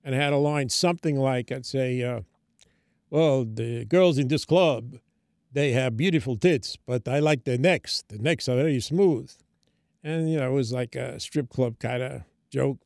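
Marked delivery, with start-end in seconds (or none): 3.1-9.3 slow, drawn-out vampire voice; Bela Lugosi. Retold or imitated. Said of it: "one of the impressions was Bela Lugosi".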